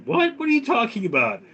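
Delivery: high, fast, startled squeak; shrill disbelieving what; shocked kid. Acted. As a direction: recoil in shock, voice jumping up high. Kid shocked by grandma's offer.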